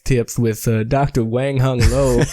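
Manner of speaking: slow sketch-show host announcement; slow announcer intro. Acted. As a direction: announce the segment slowly. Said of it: "we're gonna do a little flashback here".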